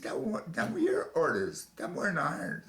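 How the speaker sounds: high and loud, throwing blame back; loud accusing yell; angry hollering. Retold or imitated. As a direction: hurl it back at the captain. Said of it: "I was actually hollering".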